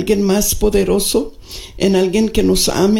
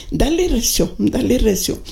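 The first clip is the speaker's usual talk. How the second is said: medio fastidiada; 4 semitones higher than usual. Retold or imitated. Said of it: "Y media fastidiosa me dijo".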